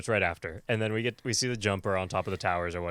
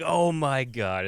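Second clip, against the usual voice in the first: slow, drawn-out mock horror, raised a little; mock disgust; 5 semitones higher, 4 dB louder, much slower than usual. Shoppers react to the bag choice, in mock disgust. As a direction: draw it out as an appalled onlooker. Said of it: "in disgust".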